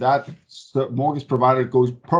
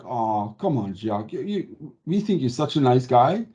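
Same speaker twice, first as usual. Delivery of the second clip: imagined cajoling banker. Acted. Imagined banker flattering a client, lightly mocked cajoling. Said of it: "It's not like".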